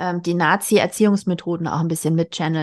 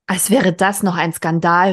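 called out; 4 dB louder than usual. Acted. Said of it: "rief Mathilda".

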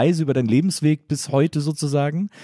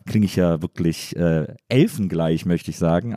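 ironic deadpan; 6 semitones lower than usual. Real, not acted. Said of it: "Ich hab heute eine etwas brüchige Stimme".

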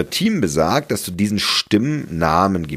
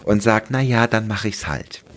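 polite agreer; 3 semitones higher than usual. Retold or imitated. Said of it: "die höfliche Zustimmerin".

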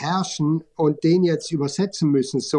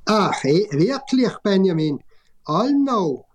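Tyrolean dialect, pitched higher; 4 semitones higher, slower than usual. Acted. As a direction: read it in thick Tyrolean. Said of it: "Tiroler, äh, Dialekt".

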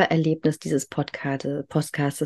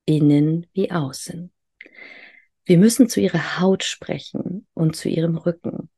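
reading a quote. Acted. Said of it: "möchte ich dir mal was vorlesen, was er mal gesagt hat".

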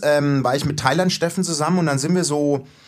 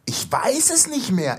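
dazed self-quote; 9 semitones higher, slower than usual. Retold or imitated. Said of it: "Ich so".

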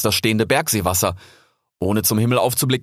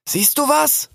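calling out; slower than usual. Acted. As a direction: shout the question up the mountain.

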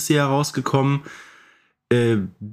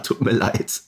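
usual speaking voice

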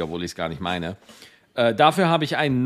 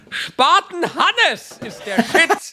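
laughing; 13 semitones higher, much slower than usual. Real, not acted. Laughing at own joke.

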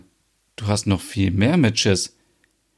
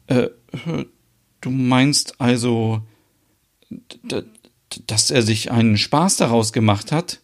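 peinlich berührt. Acted. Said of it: "Merit ist peinlich berührt".

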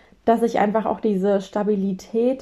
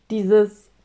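ordinary talk

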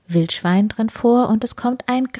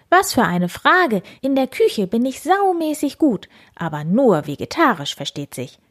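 higher, boastful piggy voice; proud boar; 6 semitones higher than usual. Acted. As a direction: brag about your cooking. Wildi boasts. (stolzes Wildschwein, höher, prahlend)

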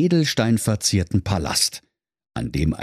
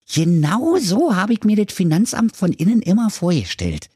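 put-on higher, cocky young fellow; brash and quick like a street kid; lightly voiced cheeky youth; cheeky lad Thorsten; 11 semitones higher, 3 dB louder than usual. Thorsten comments inside office.

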